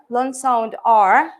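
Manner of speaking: R held long and slow as "long sound R"; drawn-out long R. Shown as a demonstration. Teacher showing students a long R sound. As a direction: stretch the R in "long sound R" slowly. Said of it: "Then I explain that".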